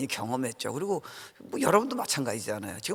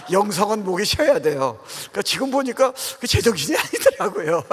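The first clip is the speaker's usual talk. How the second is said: words broken up by real laughter, louder; amused, laughing, higher and louder; laughing while talking; 7 semitones higher, 8 dB louder than usual. Real, not acted. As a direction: laugh through the words at your younger self. Laughs at his own zeal.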